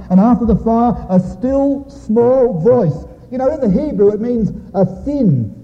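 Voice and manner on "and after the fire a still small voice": "still small voice" drawn out slowly, pitched high; drawn-out stress. Real, not acted. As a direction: raise and stretch each word of "still small voice". Preacher slows to stress the phrase.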